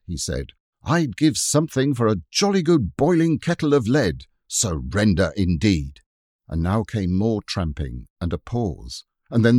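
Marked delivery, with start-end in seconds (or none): 0.8-6.0 higher and louder, fierce and scornful; a boy's fiery battle scorn; fierce defiance. Acted. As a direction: spit out defiance at the attackers. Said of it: "in a fury".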